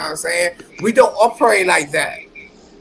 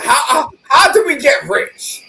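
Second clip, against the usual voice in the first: shouting; 6 semitones higher, 4 dB louder than usual. Real, not acted. Drunk rant about getting rich.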